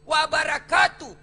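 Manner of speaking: "Warahmatullahi" drawn out slowly and loud; preacher stresses each blessing to the congregation; slow emphatic warahmatullahi. Shown as a demonstration. Slow, loud emphasis. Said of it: "Salamnya orang Islam itu lengkap".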